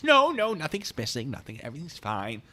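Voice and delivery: high, loud protesting homeowner; emphatic denial. Retold or imitated. Acting out a worried homeowner's denial.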